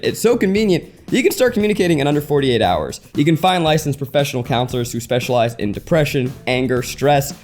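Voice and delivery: smooth podcast host ad read; sponsor ad read. Acted. Host pitching online therapy to listeners, ad read. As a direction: read it as a friendly, practised sponsor message.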